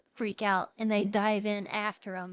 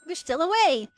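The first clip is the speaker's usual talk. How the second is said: sly hint; 4 semitones higher, 6 dB louder than usual. Retold or imitated. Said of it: "then she's like".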